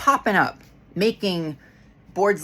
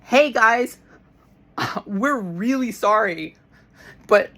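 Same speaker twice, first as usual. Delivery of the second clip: sincere company apology. Retold or imitated. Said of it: "You could at least be like".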